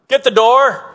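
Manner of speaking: loud call across the house; shouted call. Retold or imitated. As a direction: yell to someone to get the door. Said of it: "they would shout out".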